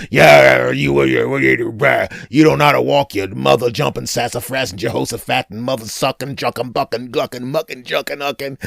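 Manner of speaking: mock drunk tough guy barking; half-hammed angry drunk; drunk hulk yelling. Drunk bar brute snaps at the guy who grazed him, mock angry yell.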